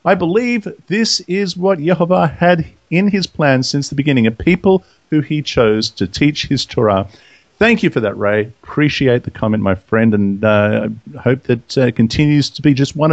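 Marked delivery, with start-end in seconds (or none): 0.0-7.1 measured read-out of a message; reading aloud. Acted. Host reading a listener's comment, measured read-aloud. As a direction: read it deliberately, phrase by phrase.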